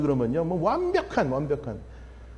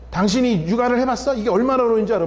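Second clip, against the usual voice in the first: mock angry spouse; 4 semitones higher, 4 dB louder than usual. Acted spouse quarrel.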